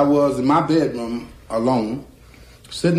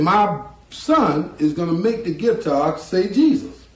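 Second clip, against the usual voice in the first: slow, raised preacher's announcement; proud church announcement; 5 semitones higher, slower than usual. Retold or imitated. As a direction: announce it slowly to a congregation.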